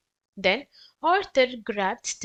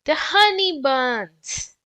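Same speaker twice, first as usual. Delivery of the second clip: slow, louder dismayed cry; gasping; 4 semitones higher, 6 dB louder than usual. Acted. Stanley sees bees on the buns, shocked gasp. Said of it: "he gasped".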